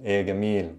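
"gamil" with a hard g sound; Egyptian hard g. Shown as a demonstration. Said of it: "the jim turns into a ga".

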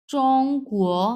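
চং on a flat high tone, কুয়ো rising; Chinese tones. Shown as a demonstration. Teacher modelling চং কুয়ো tones for students. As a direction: say চং level and high, then lift কুয়ো. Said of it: "প্রথমে flat tone চং".

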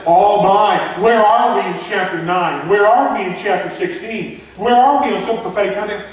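mock-anxious reader's questions; worried reader. Teacher voicing a confused reader of Revelation, lightly mock-anxious. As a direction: fret over the chapters, half-mocking. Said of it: "I'm saying".

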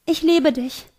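high-pitched, tender confession; murmured tenderness. A narrator's reading. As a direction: murmur love to a brother. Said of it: "raunte ich".

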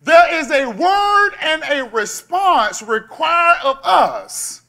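loud, slow emphatic preaching; forceful preaching. Real, not acted. Pastor to congregation, loud slow emphasis. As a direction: drive it home slowly and loud.

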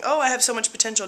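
quick, upbeat pep talk to herself; fired up and eager; self-motivating. Retold or imitated. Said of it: "that could be motivating".

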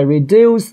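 no extra syllable, just a crisp t after reduce; T ending. Shown as a demonstration. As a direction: reduce said as the past form, ending in a voiceless t. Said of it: "thì mình đọc là T".

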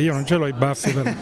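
chuckling through the words; laughing. Real, not acted. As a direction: laugh as you say it. Jokes about his own moustache.

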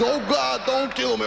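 high imitated plea for mercy; mock pleading. Mobster imitating his victim, high mock pleading. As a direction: mimic a victim begging.

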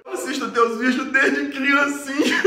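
slow, hammed-up teary sobbing fan; mock crying. Fan crying to his idol, hammed-up slow sob. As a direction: play up a blubbering, laughing confession. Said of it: "E chorando, não foi assim".

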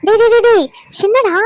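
loud, high, repeated protest; scolding call. Acted. Aunt stops boy ordering her about, loud protesting call. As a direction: pull the cheeky child up short, loudly.

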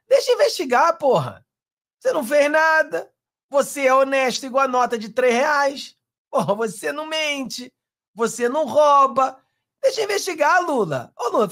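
high, sing-song needling of a politician; mocking taunt. Commentator taunting Lula about the investigation, mocking and high-pitched. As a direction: goad him like you're soothing a nervous child, all sarcasm.

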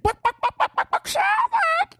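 high clucking hen; chicken clucking. Acted. Chicken imitation.

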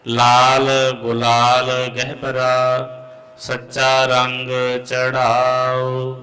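measured chant of Gurbani; santhya recitation. Real, not acted. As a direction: recite slowly, line by line. (ਗੁਰਬਾਣੀ ਦਾ ਸੰਥਿਆ ਪਾਠ)

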